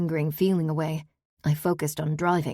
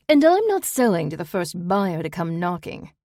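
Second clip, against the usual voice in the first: louder, cutting snap; the aunt bites back at the buyer; snapped; 5 dB louder than usual. A narrator's reading. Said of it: "Ruth snapped".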